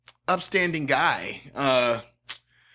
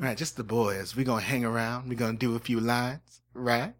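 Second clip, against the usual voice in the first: lightly voiced nasal Southern man; Dean Sessions; 2 semitones lower than usual. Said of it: "I really hate this voice".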